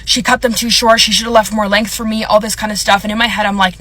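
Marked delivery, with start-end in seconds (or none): 0.0-2.2 imitated angry nail tech. Nail tech blaming the other girl to a client, imitated anger. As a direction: throw the blame as a mad nail tech would. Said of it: "she gets so mad".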